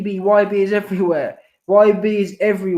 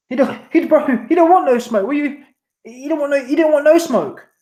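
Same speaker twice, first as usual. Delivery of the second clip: he's loving this, crank the hype; hyped up; 7 semitones higher than usual. Real, not acted. Streamer hyping up his chat about a rival, pitched high and excited.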